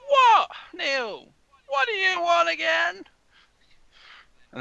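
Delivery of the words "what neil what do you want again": high, loud mother's yell; shrill-pitched, drawn-out shout to son; exasperated calling. Acted. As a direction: holler back from the far end of the house. Mother shouts from back of house.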